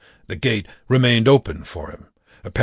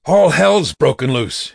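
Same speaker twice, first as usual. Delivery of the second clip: raised, high-pitched cry of alarm; urgent shout; 5 semitones higher, 5 dB louder than usual. A narrator's reading. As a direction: shout the alarm while racing upstairs. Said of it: "he shouted as he raced up the stairs".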